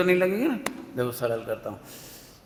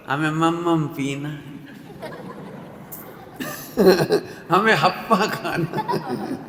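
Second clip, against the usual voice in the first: put-on baby talk, broken by laughter; laughing baby talk to wife; slower than usual. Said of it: "पत्नी से कहो". (पत्नी से हँसते हुए तुतलाकर कहना)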